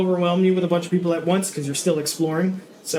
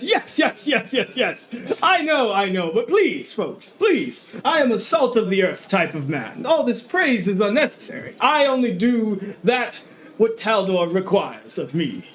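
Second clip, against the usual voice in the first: booming baron. Acted. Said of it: "his voice deep and booming".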